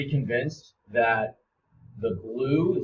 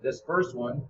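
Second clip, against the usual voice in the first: talking while chewing an apple; words round a bite of apple; mouth full. Real, not acted. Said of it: "sorry, I'm eating an apple".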